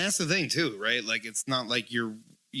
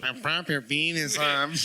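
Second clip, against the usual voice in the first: mock Spanish accent. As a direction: demonstrate a put-on Spanish accent. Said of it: "Yeah, that's better".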